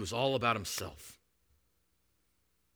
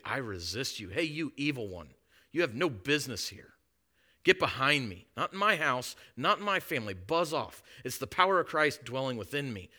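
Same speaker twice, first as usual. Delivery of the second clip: bold rebuke; 3 semitones higher, 3 dB louder than usual. Pretend. Rebuking the devil.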